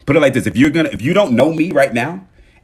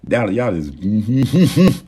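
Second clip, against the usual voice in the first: drawn-out praise; much slower than usual. Real, not acted.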